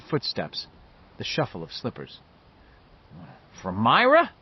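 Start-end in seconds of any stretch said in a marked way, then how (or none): 3.6-4.3 high, loud, startled question; alarmed. A narrator's reading. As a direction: ask it with a touch of alarm, pitch rising. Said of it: "He sounded alarmed".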